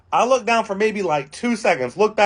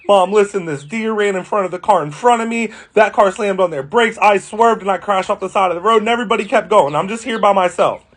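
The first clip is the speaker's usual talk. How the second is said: put-on tearful pleading, a bit higher; fake crying; 3 semitones higher than usual. Teen after a crash lying to his mom on the phone, mock tearful. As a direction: pretend to be shaken up so mom buys the story. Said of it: "I'm, like, fake crying".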